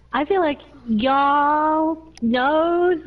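slow, drawn-out try at country American; American country accent. Acted. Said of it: "The country. Especially the American accent".

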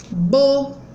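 "boca" broken into bo, ca; syllable by syllable. Shown as a demonstration. Teacher counting syllables, "boca" split in two. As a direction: pause between the two beats of "boca". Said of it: "quando eu abro a boca duas vezes".

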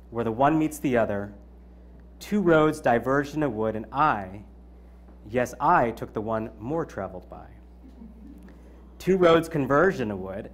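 measured, deliberate poem reading; poem recital. Acted. Speaker reciting a poem to the audience, measured delivery. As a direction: recite it line by line, letting the pauses breathe.

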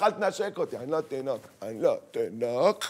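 put-on low grumbled refusal from a teen; protesting teenage son. Teenage son to father who kisses him, grumbling protest. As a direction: push dad away, pitch dropping low. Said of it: "שאומר לך".

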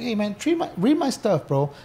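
proud, sure of yourself; eager request. Retold or imitated. Asking close friends to read his transcripts, eager. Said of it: "I was like".

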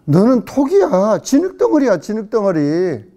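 acted rebuke. Voicing God's rebuke to humans.

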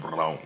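"wrong" repeated with an L slipped in, "rlong"; low replay of "wrong" as "rlong"; mispronounced wrong. Retold or imitated. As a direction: echo the slip, putting an L into "wrong". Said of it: "How the hell did I put an L".

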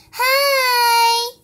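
high squeaky little doll greeting. Pretend. Doll says hi on cue.

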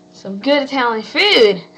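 excited. Real, not acted. Raving about the food.

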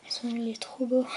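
breathy unvoiced whisper of delight; soft hushed aside. Real, not acted. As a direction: whisper it to yourself, charmed. Whispered aside while unboxing.

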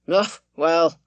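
ponderous squire. A narrator's reading. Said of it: "speaking in a ponderous, coughing fashion".

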